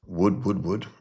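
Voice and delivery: mock sound effect. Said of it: "I don't know what these sounds are".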